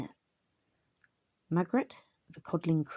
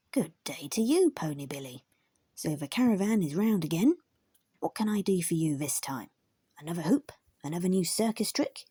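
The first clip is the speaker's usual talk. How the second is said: cheerful terrier blacksmith; 3 dB louder than usual. Acted. Terrier blacksmith Metal speaks.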